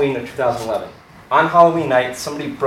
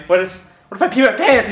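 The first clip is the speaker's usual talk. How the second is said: quick, higher-pitched fretting; retold panic; 6 semitones higher, faster than usual. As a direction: worry aloud in a mock-panicked rush. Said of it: "panicking the whole time".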